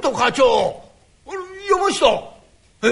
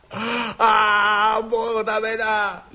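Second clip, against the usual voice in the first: despairing wail; much slower than usual. Acted. Boss despairs over being fired.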